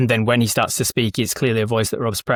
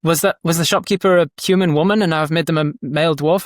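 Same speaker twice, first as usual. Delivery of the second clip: mildly flustered, higher-pitched fretting; mock stressed-out; 4 semitones higher than usual. New dungeon master fretting over a forgotten voice, mock stressed. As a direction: play at worrying over a mistake. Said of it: "stress yourself out going".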